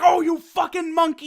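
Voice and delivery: high, loud imitated outburst; hammed-up startled swearing; mock surprised cursing. Reviewer imagines Frieza cursing Goku, mock outrage. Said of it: "cursing out every racist bullshit".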